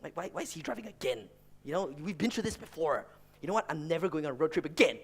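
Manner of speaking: muttering brother. Retold or imitated. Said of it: "He's just muttering to himself".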